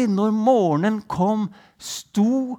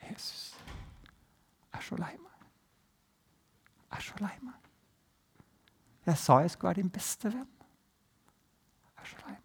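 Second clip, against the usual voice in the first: soft, sorry whisper; remorseful whisper; 12 dB quieter, faster than usual. Acted. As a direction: whisper a heartfelt apology. Peter's whispered apology. (Peter ber Jesus om tilgivelse, hviskende)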